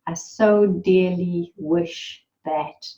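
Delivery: "I so dearly wish that" voiced out, slow, each word placed; spoken aloud. Shown as a demonstration. Guide speaking the heart's wish aloud into the space, deliberate. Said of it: "speak it in volume into the space".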